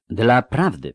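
cutting in with some edge; sharp interruption. Acted. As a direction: break in firmly on the other speaker. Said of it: "przerwała ostro Nimue". (ostre wejście w słowo)

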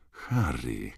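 low, soft, drawn-out hiss; exasperated hiss. A narrator's reading. Hermione scolding Harry for gaping at the veela, hissing. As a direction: hiss it slowly under your breath. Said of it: "syknęła".

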